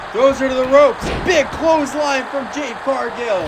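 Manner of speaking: energetic play-by-play, bursts of shouting; wrestling commentator. Acted. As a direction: keep calling the action with rising hype. Continues live match commentary.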